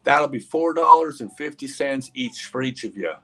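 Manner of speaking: put-on name the price like a small-town farm girl; farmer's daughter. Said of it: "farmer's daughter".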